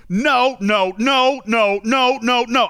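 mock exasperated no no no; repeated no's. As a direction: stack up a run of exasperated no's. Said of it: "You should see all the no's".

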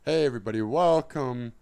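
lightly put-on talk-show host, loud; Seth Meyers. Comedian opening a pretend show, loud host voice. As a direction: greet the audience as a late-night host. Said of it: "That's my Seth Meyers impression".

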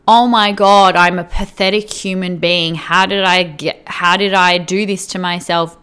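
hammed-up dieter scolding herself; mock self-blame. Coach imitating a dieter after weighing, in mock panic. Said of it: "constantly beating yourself up".

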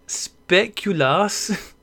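speculas drawn out very slowly through laughter; fumbled Dutch word. Shown as a demonstration. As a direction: stretch speculas out haltingly while laughing. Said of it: "This is sounding like the Swedish chef".

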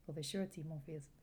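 put-on lightly French-accented priest. Priest agrees to wed the couple, French accent. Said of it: "I really enjoyed your French accent".

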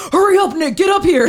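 high, loud, impatient call; mock an irritated man urging a friend on; imitated irritation. Host imitates Zach calling Nick up the hill, irritated. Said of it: "like, getting irritated".

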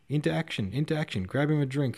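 high-pitched, eager exclamation; rally the room with lifted voice; excited cheering. A narrator's reading. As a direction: jubilant call to arms. Officers cheer news of going to war.

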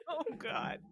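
high 'oh' broken by laughter; laughing exclamation. Real, not acted. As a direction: gasp it out between laughs. Laughing reaction to gory scene.

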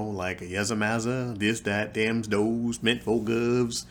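lightly put-on servile dialect, dragging at the end; a hint of mocking, subservient caricature speech. Fox asking his critic how he should sound, lightly mocking servile dialect. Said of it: "Am I supposed to sound like".

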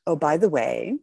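offhand, breezy aside; casual. Retold or imitated. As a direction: toss it off like nothing. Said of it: "just like that".

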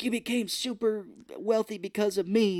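high-pitched mock indignation; hammed-up impression of an aggrieved star; Robin Williams. Ousted host claims credit for another's wealth, mock indignant.

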